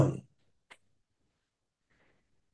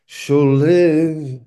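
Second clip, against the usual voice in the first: "Shall live" raised and louder, peaking on "live"; stress on live; 3 semitones higher, 4 dB louder than usual. Shown as a demonstration. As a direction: lean into the verb "live". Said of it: "the emphasis is on that middle word".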